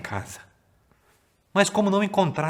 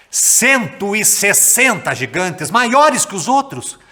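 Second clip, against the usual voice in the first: slow, loud, drawn-out announcement of the giants; dramatic slow reveal; 8 semitones higher, 9 dB louder, slower than usual. A narrator's reading. Storyteller wowing the kids with the giants, slow and loud. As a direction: stretch each word to make the giants feel huge.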